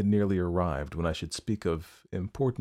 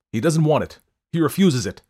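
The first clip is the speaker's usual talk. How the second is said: loud angry retort, voice raised; 8 semitones higher, 9 dB louder than usual. Acted. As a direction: snap back in anger, much louder. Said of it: "I answered angrily".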